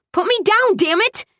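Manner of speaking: very high indignant outcry. A narrator's reading. Woman carried into the cold protests, outraged. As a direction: protest at the top of your pitch. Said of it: "I protested louder".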